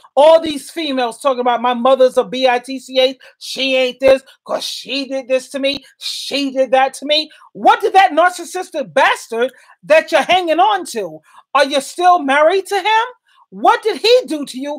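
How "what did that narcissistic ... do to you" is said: voice climbing high, getting carried away. Pressing the listener with questions; getting loud. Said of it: "I'm getting a little loud here".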